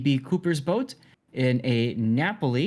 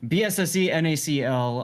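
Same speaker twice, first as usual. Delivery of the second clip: grand entrance announcement. Acted. Caster opens broadcast show.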